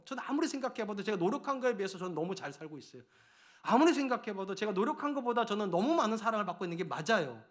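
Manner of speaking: normal talking voice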